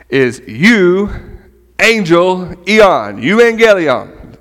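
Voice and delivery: euangelion said slowly, syllable by syllable, yoo-an-GEL-ee-on; careful Greek word. Shown as a demonstration. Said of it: "however you pronounce it".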